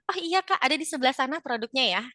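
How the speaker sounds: friendly smiling customer-service answer. Shown as a demonstration. Seller pointing out a product, smiling voice. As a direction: smile as you help the customer. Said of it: "pakai teknik smiling voice".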